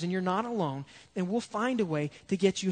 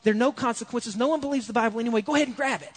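tempting whisperer; 3 semitones higher than usual. Retold or imitated. Bad influences urging a believer, coaxing. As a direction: egg them on to give in. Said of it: "speaking over our shoulders saying".

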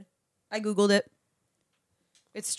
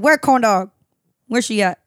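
quoted fans; 6 dB louder than usual. Retold or imitated. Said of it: "They said".

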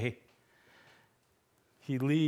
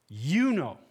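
You punched louder at the start; emphatic you; 4 dB louder than usual. Shown as a demonstration. Preacher showing Peter's emphatic You, stressed. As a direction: hit You hard, then let know fall. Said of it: "you is emphatic".

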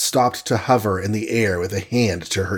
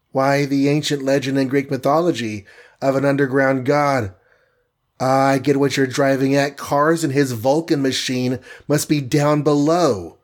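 slightly raised Wasp voice, thinking aloud; light character voice, working out the answer; lightly voiced heroine; 3 semitones higher than usual.

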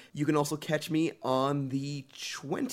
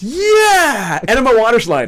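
excited shout; 8 semitones higher, 14 dB louder than usual. Real, not acted. Excited reply to enema joke.

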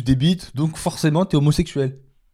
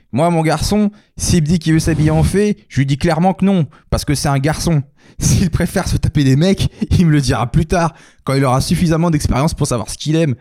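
lightly voiced redneck, a bit higher; beauf voice; 4 semitones higher than usual. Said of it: "avec une voix de beauf".

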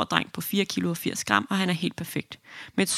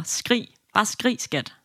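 a half-shouted urging, higher pitched; mild mock yell; 4 semitones higher, much slower than usual. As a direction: cheer her on like a panicked boyfriend. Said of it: "nærmest råber". (kæresten halvt råber opmuntrende til fødende)

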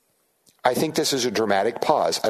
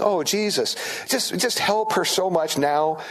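higher, slow pleading; mock compassion; 5 semitones higher, slower than usual. Disciples pleading with Jesus for the woman, mock compassionate. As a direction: put on a tender plea for someone else. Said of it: "they were all just showing compassion".

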